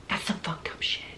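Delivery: half-voiced whisper of disgust; whispered aside. Real, not acted. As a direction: drop to a shocked whisper. Grim aside on the crime scene.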